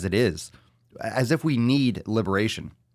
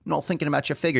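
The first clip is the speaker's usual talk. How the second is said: sarcastic, higher; 7 semitones higher, faster than usual. Retold or imitated. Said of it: "repeated sarcastically".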